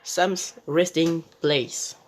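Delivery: slow, self-mocking English accent on the name. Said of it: "mon accent est excellent".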